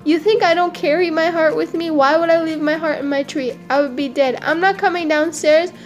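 indignant monkey. Acted. Monkey rebuking crocodile for betrayal, indignant. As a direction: tell off a false friend.

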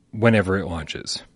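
slow, understated snark; mildly snarky retold statement; a little snarky. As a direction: quote it with a slight dig, drawn out. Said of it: "a little bit of snarkiness in that statement".

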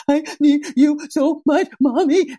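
put-on high pleading kid voice; melting-down child. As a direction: beg like a clingy toddler. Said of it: "having a meltdown".

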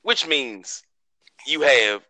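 booming ringmaster intro, slow. Acted. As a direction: announce it like a circus ringmaster. Show opening announcer intro.

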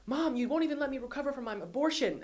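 high, strained retelling of a daughter screaming; retold screaming at mom. Daughter screaming at her mother about recovery, high and heated. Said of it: "Danny is screaming at Jen".

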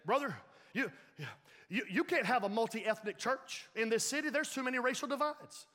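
lightly mock the wrestler's brash pitch; Hulk Hogan. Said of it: "sound like Hulk Hogan".

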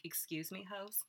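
loud indignant protest; outraged, shouting at the unfairness; indignant outrage. Retold or imitated. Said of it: "and I was like".

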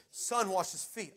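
slow, insistent divine command; measured, weighty God voice; holy pressure. Retold or imitated. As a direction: stretch each word with calm authority. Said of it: "with the holy pressure again".

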